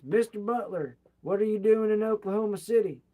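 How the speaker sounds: retold yell calling someone up from the back of the line; yelling across crowd. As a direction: shout to him from the front of the line. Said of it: "Jim gets up and yells".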